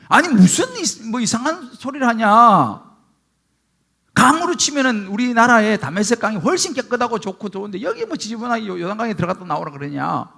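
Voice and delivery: Naaman's mild mock indignation at the prophet; retold angry outburst. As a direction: scoff at the order as an insult, then let it trail off. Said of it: "라고 화를 내요".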